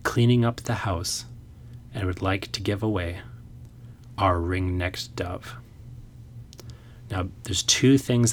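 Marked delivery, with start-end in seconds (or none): 0.0-5.6 reading a haiku. Shown as a demonstration. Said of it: "this is how the haiku goes".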